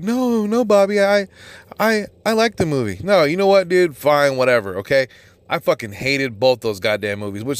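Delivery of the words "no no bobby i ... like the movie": high, whiny voice of a fan sticking up for the film; mock defensive fan. Mocking viewers who liked the movie, in a high whiny voice. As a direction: mimic a fan protesting that he liked it. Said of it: "you're like".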